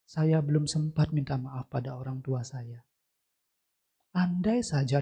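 mildly rueful, soft and wistful on each wish; understated guilty lament; retold regret. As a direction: voice her remorse with restraint. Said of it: "Dia kembali merasa bersalah".

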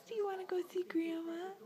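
soft whispered question; whispering. Real, not acted. Asks baby, then whispers it.

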